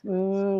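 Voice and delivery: soft humming warm-up; a short, easy vocal warm-up hum; gentle hum. Shown as a demonstration. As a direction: hum gently on a closed-mouth mm. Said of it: "gentle hums".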